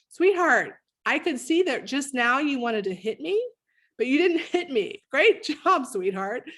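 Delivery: high, loud, gushing praise; praising my son. Retold or imitated. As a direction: overdo the proud-mom cheer, laughing through it. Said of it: "I literally had these conversations with my son".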